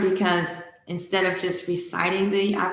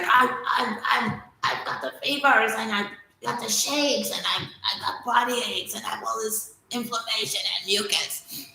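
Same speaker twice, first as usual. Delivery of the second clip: ailing god; 3 semitones higher than usual. Acted. Ra sick from snakebite.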